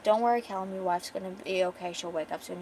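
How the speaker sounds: gently reassuring, settling downward. Acted. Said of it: "Celestia's trying to be reassuring".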